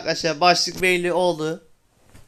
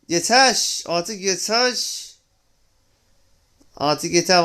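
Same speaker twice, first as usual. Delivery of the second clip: fed up; slower than usual. Real, not acted. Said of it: "Vallahi çok sinirlendim arkadaşlar".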